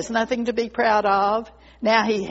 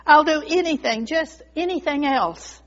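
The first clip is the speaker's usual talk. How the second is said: high-pitched, mildly desperate begging; storyteller's lightly acted plea; pleading; 5 semitones higher than usual. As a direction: bargain with your master for mercy. Bamboo begs not to be cut.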